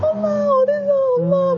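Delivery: very high imitated child wail; crying children. Children search for their hidden mother, imitated crying calls. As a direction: mimic little kids calling out for mom in tears. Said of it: "애들 막 울어요".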